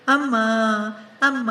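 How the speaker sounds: a child's sobbing cry for mom, voiced by the narrator. A narrator's reading. Little girl on the floor calling her mother, sobbing. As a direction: cry out for mom between sobs. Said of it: "ಬಿಕ್ಕಳಿಸಿ ಬಿಕ್ಕಳಿಸಿ ಜೋರು ಜೋರಾಗಿ ಅಳುತ್ತಾ".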